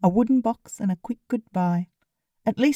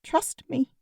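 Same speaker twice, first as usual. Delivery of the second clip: serious, intense; 6 semitones higher, 4 dB quieter than usual. A narrator's reading. Lennon urging Pip to trust him, lightly serious and intense. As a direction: say it with quiet intensity. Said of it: "his voice serious and intense".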